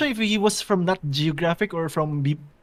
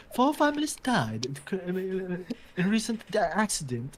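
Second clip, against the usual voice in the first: hint of a British newsreader; posh British accent; 6 dB quieter than usual. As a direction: deliver bad news in a lightly mock British accent. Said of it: "it's a posh British accent".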